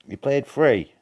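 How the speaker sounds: can't believe he played three; surprised disbelief. Real, not acted. Reacting to friend's game count.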